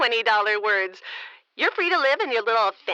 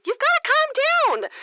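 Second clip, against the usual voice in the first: condescending; 11 semitones higher than usual. Acted. Mayor condescending to upset reporter.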